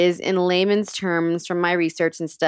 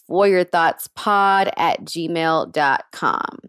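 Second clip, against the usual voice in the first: slow, clear dictation; slower than usual. Shown as a demonstration. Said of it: "spelling out the email".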